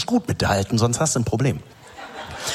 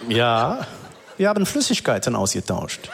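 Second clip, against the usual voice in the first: secretive mechanic; 3 semitones lower than usual. Retold or imitated. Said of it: "immer so zu sprechen, als ob alles ein krasses Geheimnis ist".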